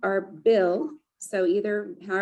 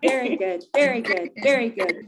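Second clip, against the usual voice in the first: cheer; 4 semitones higher, 4 dB louder than usual. Shown as a demonstration. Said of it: "And then we will end".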